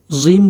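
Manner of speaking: জিম said as a buzzing "zim"; soft wrong জিম. Shown as a demonstration. Teacher shows learners the mistake, জিম as "zim". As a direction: swap the "j" of জিম for "z". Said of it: "সঠিক হয় না".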